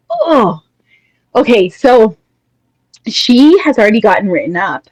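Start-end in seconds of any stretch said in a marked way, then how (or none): 0.1-0.6 higher-pitched, drawn-out "oh"; exasperated groan. Retold or imitated. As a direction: groan as if you can't stand it. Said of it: "so I'm just like".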